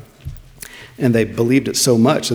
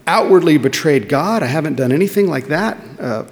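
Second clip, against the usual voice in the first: higher, pleading protest; vexed Job; 4 semitones higher than usual. Retold or imitated. Job protesting to his friends, higher and pleading. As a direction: defend yourself like the wronged Job. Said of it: "He's like".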